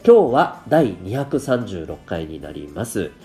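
stuffy blocked nose; talking through a cold; nasal voice. Real, not acted. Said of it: "かなり鼻声ですよね。".

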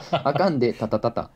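あかんで beaten out, then タタタタ; rhythm demonstration. Shown as a demonstration. Reading a listener's rhythm theory aloud, rhythm demonstration. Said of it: "あかんでのリズム".

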